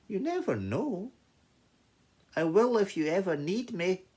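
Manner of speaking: high-pitched little mouse insisting; hopeful mouse. Acted. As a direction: pipe up in a high, small creature's voice. Mouse answers.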